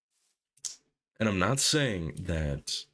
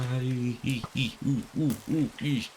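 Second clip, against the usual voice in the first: high frantic ee and ooh yelps; panicked squeals; 7 semitones higher than usual. Real, not acted. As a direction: squeal in panic at each jump. Panicked jumps in game.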